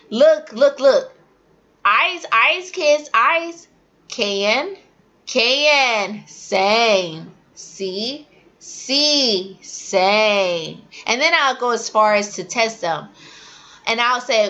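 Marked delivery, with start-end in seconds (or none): 0.1-10.8 put-on teacher drilling young learners. Shown as a demonstration. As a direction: point and make them watch. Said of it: "you have to let them know".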